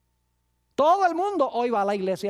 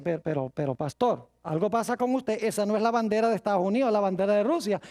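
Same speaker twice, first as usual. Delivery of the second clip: mock protest; 2 semitones lower than usual. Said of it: "la gente me dice".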